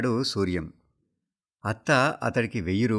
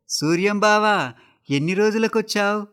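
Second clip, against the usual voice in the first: joyful greeting; 10 semitones higher, 4 dB louder than usual. Acted. Hijras crowd round Suryam, calling out in delight, high and loud. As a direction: welcome an old friend with delight.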